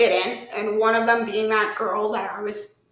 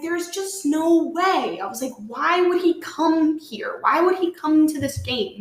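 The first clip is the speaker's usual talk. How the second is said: higher-pitched incredulous questioning; retold disbelief; 4 semitones higher than usual. Telling how she saw her ex in the stands, incredulous. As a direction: draw out the disbelief in a raised pitch.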